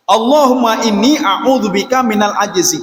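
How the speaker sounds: slow, measured Arabic prayer; prayer recitation. Shown as a demonstration. Preacher recites the Prophet's prayer to the congregation, slow reverent recitation. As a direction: recite each word slowly and reverently.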